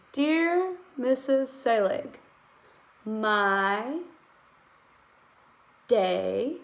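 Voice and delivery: slow, stretched dictation reading; teacher sounding out a letter line. Shown as a demonstration. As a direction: read each word out slowly for writing. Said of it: "I'll show you exactly what I'm doing".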